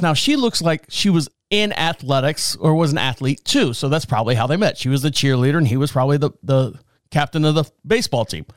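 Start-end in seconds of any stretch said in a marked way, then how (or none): none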